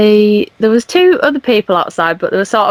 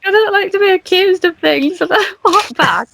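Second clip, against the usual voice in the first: high, whiny mock crying voice; hammed-up tearful protest; 10 semitones higher than usual. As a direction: imitate yourself protesting through tears, pitched way up. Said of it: "then I started crying".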